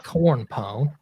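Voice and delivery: warming up a light redneck twang; redneck accent. Pretend. Player getting into character for the game, redneck accent. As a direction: try out a country redneck accent. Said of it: "I'll try redneck".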